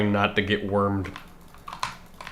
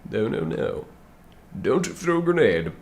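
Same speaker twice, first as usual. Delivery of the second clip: panicked warning; 8 semitones higher than usual. Real, not acted.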